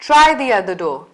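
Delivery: brisk command. Shown as a demonstration. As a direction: tell them what to do. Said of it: "So we just say".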